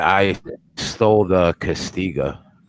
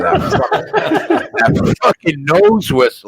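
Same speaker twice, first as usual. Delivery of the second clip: laughing through words; 11 semitones higher, 5 dB louder than usual. Real, not acted. Cracking up while retelling story.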